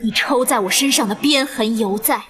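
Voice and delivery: usual speaking voice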